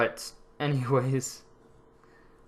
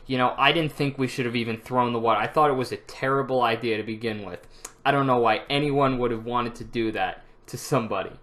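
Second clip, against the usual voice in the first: playing dumb; 4 dB louder than usual. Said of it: "I would just play dumb".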